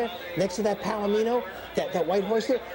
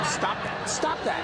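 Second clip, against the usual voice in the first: half-laughing protest; 7 semitones higher, slower than usual. Acted. Friend mocks his mother.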